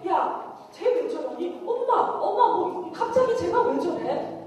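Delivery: high-pitched puzzled reaction; baffled family. Acted. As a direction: imitate mom and sister wondering what got into her. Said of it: "이유를 모르는 거야". (영문을 몰라 어리둥절한 말투)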